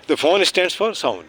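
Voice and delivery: very slow, word by word; slow teaching voice. Shown as a demonstration. Teacher fixing the answer for the children, very slow. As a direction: lay each word down for the kids.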